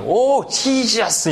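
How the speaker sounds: high, drawn-out exasperated cry; mock exasperation. Host losing patience with Jesus, mock angry outburst. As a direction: exclaim in annoyance, dragging the words out. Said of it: "이러면서 화를 내는 거예요".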